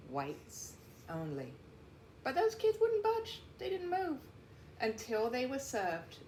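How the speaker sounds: steady storybook narration; read-aloud voice for young listeners; reading to children. A narrator's reading. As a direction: tell the story to a class of kids. Reads picture book to class.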